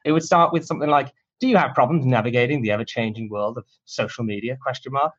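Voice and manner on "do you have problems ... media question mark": hammy TV salesman read; infomercial voice. Shown as a demonstration. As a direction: sell it like late-night TV. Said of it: "I have to do it in this ridiculous infomercial voice".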